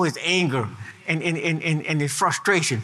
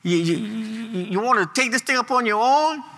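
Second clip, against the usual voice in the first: God rebuking; 5 semitones higher than usual. Acted. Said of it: "God look at that, at unbelief".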